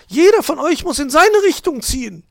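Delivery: high, loud magpie orders; high-pitched shouted instruction; urging on. A narrator's reading. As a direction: egg them on at full volume. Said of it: "feuerte Frau Elster die beiden an".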